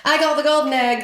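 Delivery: playful golden egg brag; mock gloating. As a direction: crow about winning like a kid. Playing Jesus at egg hunt.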